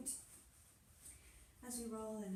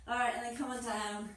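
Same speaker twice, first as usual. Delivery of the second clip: laughing; 6 dB louder than usual. Real, not acted. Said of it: "I'm out of breath".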